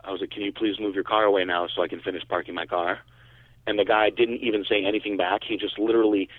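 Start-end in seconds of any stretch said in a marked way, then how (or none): 0.0-3.0 calm, polite request retold, a touch softer; unruffled courtesy. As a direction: politely ask a stranger to move, staying calm. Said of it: "very calm".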